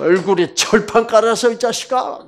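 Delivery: mock scolding. Preacher imagines rebuking brazen Judas, loud mock scolding. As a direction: tell him off in jest. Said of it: "제가 예수님 같았으면".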